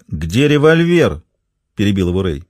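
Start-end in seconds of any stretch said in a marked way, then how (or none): 0.1-1.2 slow hard demand. Acted. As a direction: cut in, slow and cold. Ray cuts him off.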